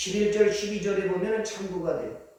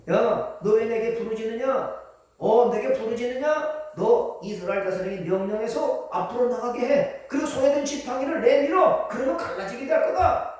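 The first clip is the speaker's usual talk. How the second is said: God; 2 semitones higher than usual. Acted. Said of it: "이걸 하나님 응답해 주셨어요".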